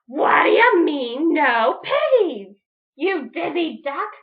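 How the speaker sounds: loud, slow scolding; irritated witch. Acted. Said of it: "Grinch screeched".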